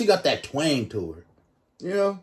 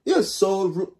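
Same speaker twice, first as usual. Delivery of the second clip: put-on higher-pitched copy of her African accent; practising an accent; 5 semitones higher than usual. Reactor echoes the woman's complaint to practise, imitated accent. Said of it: "I gotta practice".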